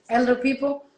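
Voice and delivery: usual speaking voice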